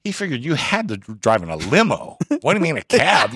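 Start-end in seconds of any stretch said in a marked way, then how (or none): 2.4-3.3 higher-pitched incredulous question; mock disbelief. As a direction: question it as if baffled. Mock surprise at the cab story.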